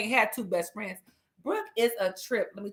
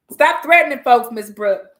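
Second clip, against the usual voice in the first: mock scolding; 3 semitones higher, 9 dB louder than usual. Mom scolding daughter.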